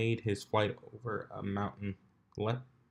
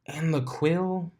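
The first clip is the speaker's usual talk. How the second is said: demanding; 7 semitones higher, slower than usual. Acted. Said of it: "she added".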